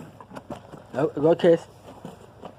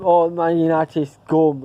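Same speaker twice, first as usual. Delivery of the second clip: mocking taunt; much slower than usual. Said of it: "going like that on T V".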